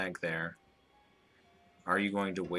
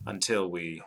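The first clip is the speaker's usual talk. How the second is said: ominous reading; 2 semitones higher, 5 dB louder than usual. A narrator's reading. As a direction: read it like a final prophecy. Robert reads the book's ominous passage.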